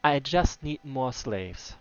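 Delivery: loud, cruel and pleased; gloating slaver. Acted. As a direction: savour every threat. Slaver gloats over captive.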